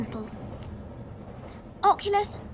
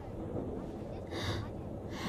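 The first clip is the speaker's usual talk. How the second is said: surprised gasp; 15 dB quieter than usual. Acted. Surprised gasp on meeting Harry.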